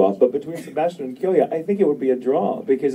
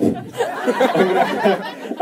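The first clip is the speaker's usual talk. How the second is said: laughing while talking; 8 semitones higher, much slower than usual. Real, not acted. Laughing through repeated phrase.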